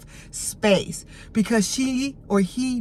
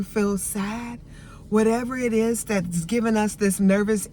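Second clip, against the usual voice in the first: put-on tender whisper-close self-soothing to the inner child. Shown as a demonstration. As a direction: comfort a hurting little one like a parent. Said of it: "and just say".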